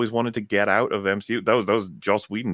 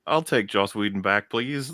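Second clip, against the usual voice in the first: half-joking begging on behalf of everyone; mock plea; 3 semitones higher, slower than usual. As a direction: beg playfully, breaking into a laugh. Voicing fans begging, half joking.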